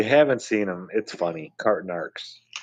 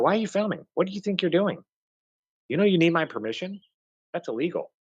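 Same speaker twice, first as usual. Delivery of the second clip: mock outraged shopper; 8 semitones higher, faster than usual. Mimicking angry filmed people.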